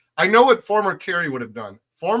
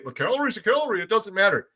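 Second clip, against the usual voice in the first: mock-quoting the foolish, pitched up; foolish naysayers; 4 semitones higher than usual. Quoting people who foolishly dismiss calorie quality, mildly mocking. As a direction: lightly mimic a foolish claim, higher than usual. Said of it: "that'll foolishly say".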